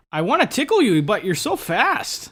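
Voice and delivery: high Canadian accent, slowing on the second half. Shown as a demonstration. Player reading a card, high Canadian accent.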